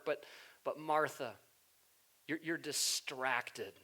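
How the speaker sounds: soft, low tender voice; a hint of kind Jesus, slowing down; gentle Jesus. Voicing Jesus speaking gently.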